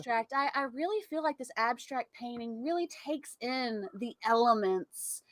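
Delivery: soft-spoken mock art connoisseur; art critic. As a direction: muse quietly and earnestly over a painting. Mock refined art critic act.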